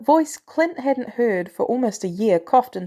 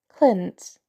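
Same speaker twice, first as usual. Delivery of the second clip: stuffy nose, gentler and kinder; softening warmly. A narrator's reading. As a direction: let the voice warm on the name. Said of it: "Her voice warmed".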